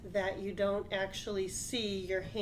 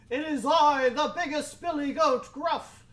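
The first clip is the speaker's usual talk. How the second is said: loud, higher proud goat; big goat voice; 6 semitones higher, 7 dB louder than usual. Acted. Biggest goat answers the troll, loud and proud. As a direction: announce yourself boldly.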